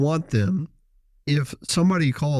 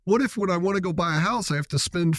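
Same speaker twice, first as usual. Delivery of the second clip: higher-pitched mimicked objections; mock complaining; 4 semitones higher than usual. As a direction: imitate reluctant people making excuses. Mimics clients' objections to freezing.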